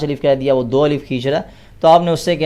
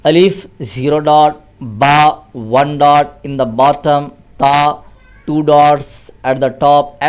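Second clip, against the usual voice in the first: put-on slow, deliberate spelling-out for children; careful classroom recitation; slow teaching dictation; much slower than usual. Shown as a demonstration. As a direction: dictate the dots slowly to a child. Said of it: "English کے اندر teach کریں".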